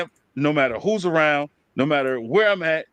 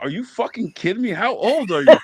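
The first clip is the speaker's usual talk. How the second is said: high, incredulous are you kidding; mock disbelief; 5 semitones higher, 4 dB louder than usual. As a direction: act shocked at his age. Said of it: "they was like".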